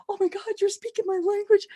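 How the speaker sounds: high, overwhelmed retold reaction; moved near tears. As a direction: squeak it out, almost crying with joy. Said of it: "I wanted to cry".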